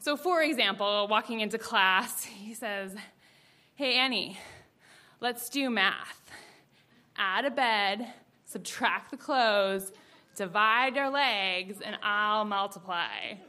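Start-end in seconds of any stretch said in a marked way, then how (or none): 3.8-13.3 slow, drawn-out cheesy pickup line; milk each step of the line like a cheesy flirt; smooth pickup line.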